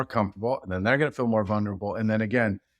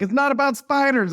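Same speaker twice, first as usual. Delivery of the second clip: high, loud exasperated correction; a fed-up coach setting them straight; retold coach losing patience, pitched way up and loud; frustrated coach; 14 semitones higher, 4 dB louder than usual. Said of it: "he's getting kinda frustrated".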